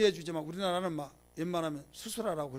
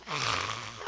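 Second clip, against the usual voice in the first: strained mock scream of pain; imitated labour scream; 7 semitones lower than usual. Preacher imitates women screaming in childbirth, mock cry. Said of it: "막 소리를 지르고".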